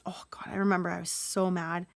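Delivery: softly whispered, almost to herself; whispered aside. Real, not acted. Telling listeners how mad she was, in a whisper. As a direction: hush it like a private confession. Aside remembering her anger.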